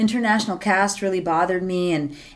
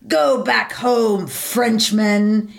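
mock villain line; much slower than usual. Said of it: "she's like".

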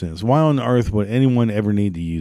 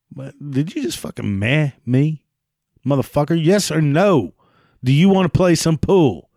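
mock fury; 5 semitones higher than usual. Angry at meh-saying friend.

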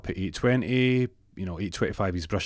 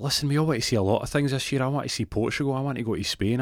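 higher, brisk receptionist voice; indignant receptionist; 4 semitones higher, faster than usual. Acted. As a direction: reel off the list at the caller, pitched up. Receptionist scolds caller in list.

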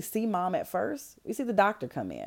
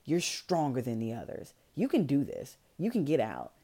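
eerily calm; 4 semitones lower, 3 dB quieter than usual. Retold or imitated. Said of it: "the way she's saying it is just kinda like, huh?".

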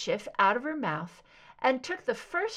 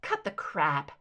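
spat; 6 semitones lower than usual. Acted. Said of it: "Scully spat".

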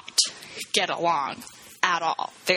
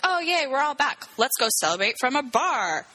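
higher-pitched retold cheering; mock celebration; 6 semitones higher than usual. Fishermen cheering about being back from sea, mock celebration. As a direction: act out a happy crew's cheer.

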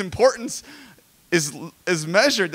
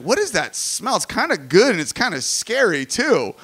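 puzzled sniffing; 3 semitones higher, 3 dB louder than usual. Acted. Acts noticing the burning brownies.

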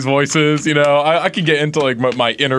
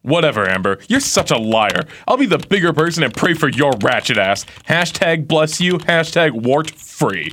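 Kat. Acted. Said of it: "you will be Kat".

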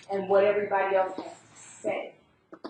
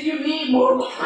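louder firm statement with the weight on more, falling; host insisting; 7 semitones higher, 8 dB louder than usual. Retold or imitated. Host overrules her guest's refusal, firm and falling. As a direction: she isn't asking now, she's telling.

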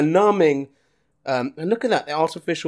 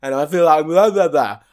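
talking with numb, tingling lips. Real, not acted. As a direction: lips numbed by chili heat. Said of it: "I can't even talk properly".

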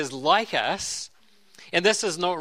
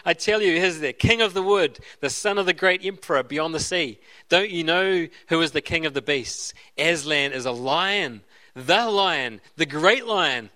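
a hint of a stern beaver, measured and firm; lightly voiced beaver setting the children straight; mildly stern storybook read. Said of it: "said Mister Beaver stern-, sternly".

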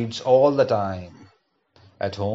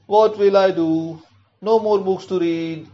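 a touch of a wail, pitched up; mild wail of a girl out of books; 5 semitones higher than usual. Acted. Child wailing she has nothing left to read. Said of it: "wails Puchku".

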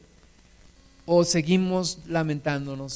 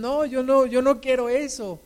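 mock youth refusal; 7 semitones higher than usual.

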